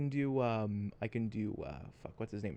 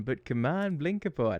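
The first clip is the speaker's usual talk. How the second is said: loud robot voice attempt; cheery robot, pushed loud; Claptrap voice; 4 dB louder than usual. Shown as a demonstration. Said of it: "how's this claptrap?".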